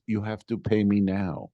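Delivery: slow, lightly imitated broken English. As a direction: space out the words like a halting non-native speaker, lightly imitated. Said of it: "in broken English".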